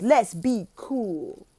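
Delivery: slow laid-back let's be cool; playing cool. Shown as a demonstration. Teacher demonstrating the cool cheer, slow. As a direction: drawl it out cool. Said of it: "when you be like".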